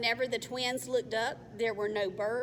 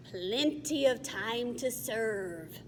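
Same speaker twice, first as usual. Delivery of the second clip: troll voice; slower than usual. Acted. Troll speaks.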